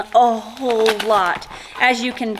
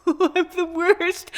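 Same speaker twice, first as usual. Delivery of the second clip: high-pitched hammed-up self-reproach; mock wail; 8 semitones higher than usual. Third grader blames herself for classmate's tears, mock wail. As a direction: wail it like a guilty little kid.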